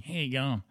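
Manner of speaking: "How you going?" slurred into one quick word; "How you going?" with the words merged; run into one word. Shown as a demonstration. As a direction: squash "How you going?" together, Australian style. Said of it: "He makes that one word".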